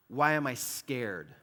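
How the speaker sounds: "Why am I scared?" said slowly and evenly, no heat; measured, unexcited question; slow literal reading. Shown as a demonstration. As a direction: lay out the plain meaning calmly. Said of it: "the fear here doesn't mean".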